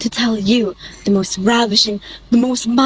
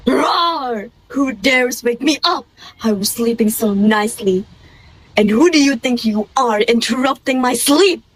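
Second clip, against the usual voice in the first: angry lion. Acted.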